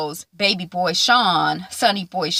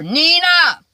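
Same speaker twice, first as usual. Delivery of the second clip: exasperated call; 9 semitones higher, 6 dB louder than usual. Real, not acted. Mocking the network's choice.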